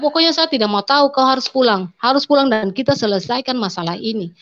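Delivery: angry demand. Retold or imitated. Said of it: "seperti dia marah sekali".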